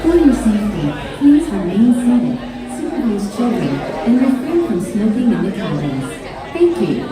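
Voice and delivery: calm PA announcement over speakers; clear, measured safety announcement; recorded announcement. Real, not acted.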